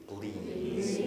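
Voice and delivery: "Please" said in English, drawn out with a rise. Shown as a demonstration. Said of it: "Все повторили".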